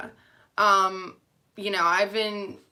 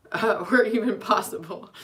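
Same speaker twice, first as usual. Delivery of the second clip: laughing; 3 dB louder than usual. Real, not acted. Laughing at her own misfortune.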